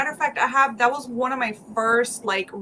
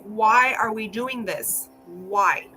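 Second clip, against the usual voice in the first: exasperated cry; much slower than usual. Retold or imitated. Retold exasperation over character death.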